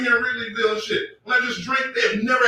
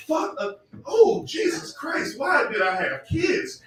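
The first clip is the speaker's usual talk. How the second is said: drawn-out exasperated wail; exasperated cry; 7 semitones higher, slower than usual. Real, not acted. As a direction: groan it out like a worn-out parent. Exasperated parent outcry.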